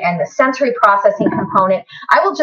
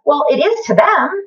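higher, slow, voice catching with tears; emotional, near tears; 5 semitones higher than usual. Real, not acted. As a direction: hold back real tears as you say it. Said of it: "Oh, see, I get emotional".

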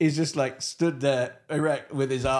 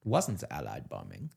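lower, softer dark reveal; brooding Hitler; 4 semitones lower, 7 dB quieter than usual. Pretend. Hitler revealing betrayal to officers, low brooding voice. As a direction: brood over each word like a paranoid tyrant.

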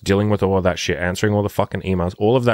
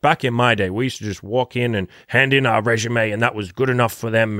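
mock boomer; 3 semitones higher than usual. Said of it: "I was a boomer and I was like".

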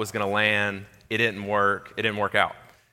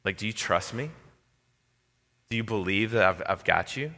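gentle voice of God; 4 dB quieter than usual. Retold or imitated. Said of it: "he was just saying".

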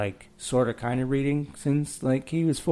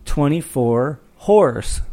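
a hint of a slow, proud child sounding out a sign, louder and higher; kid reading a sign; 4 semitones higher, 7 dB louder, slower than usual. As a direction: sound out each word slowly like a proud little kid. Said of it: "at the window and goes".

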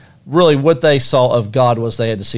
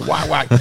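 quick, softer whack whack; whack sound effect; 5 dB quieter than usual. Retold or imitated. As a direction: tap out two clipped whacks. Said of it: "I like your sound effects on the whack".

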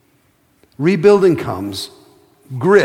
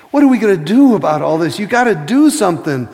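louder, faster cry to God; urgent plea; 5 semitones higher, 5 dB louder than usual. Acted. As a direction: push it out fast, pleading for action. Pleading with God.

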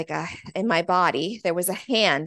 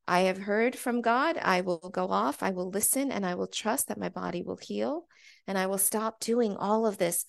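calm, resolved; 3 dB quieter than usual. Retold or imitated. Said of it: "this peacefulness come over me".

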